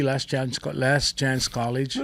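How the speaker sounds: slow, deliberate Last Chance College; savoring the nickname Last Chance College; joking nickname. Shown as a demonstration. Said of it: "I shouldn't call it Last Chance College".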